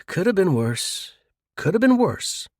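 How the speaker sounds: unbothered, even reassurance; very calm. Acted. James calmly consoling bankrupt Harry. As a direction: shrug it off calmly. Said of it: "very calmly says".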